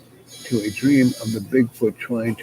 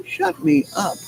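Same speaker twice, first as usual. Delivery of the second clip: crow voice. Acted. Crow character answers the officer.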